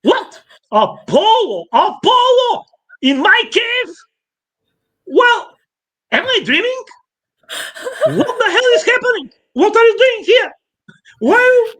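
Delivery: very high, mock-innocent squeal of surprise; hammed-up baby god feigning shock, laughing; innocent baby Hermes. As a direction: play dumb, waking up in a high, wide-eyed voice. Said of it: "he is like opening his eyes".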